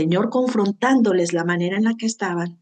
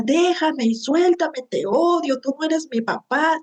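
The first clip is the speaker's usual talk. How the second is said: retold childish yell; 6 semitones higher than usual. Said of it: "Y yo le gritaba".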